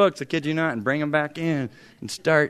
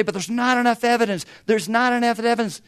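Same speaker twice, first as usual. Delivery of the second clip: higher mock skeptic voice; 6 semitones higher than usual. Preacher mocks atheists' objection, lightly. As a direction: parody their complaint. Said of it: "when they say".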